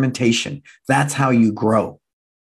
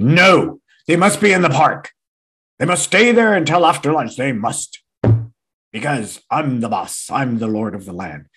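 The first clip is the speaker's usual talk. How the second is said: mock controlling boss. Owner refusing the staff's text request, pompous. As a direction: lord it over the staff, mockingly.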